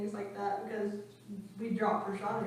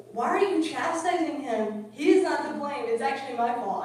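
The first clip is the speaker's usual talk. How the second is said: defending devotee; 2 semitones higher, 6 dB louder than usual. Retold or imitated. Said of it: "he goes".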